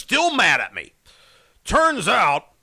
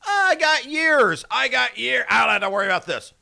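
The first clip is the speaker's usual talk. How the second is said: careless quote; 3 semitones higher than usual. Retold or imitated. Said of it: "because you said".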